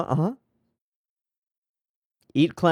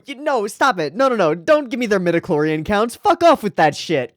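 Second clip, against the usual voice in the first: raised, louder exasperated no's; loud protest; 5 semitones higher, 4 dB louder than usual. Real, not acted. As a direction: shout them down in annoyance. Protesting annoyed at game stats.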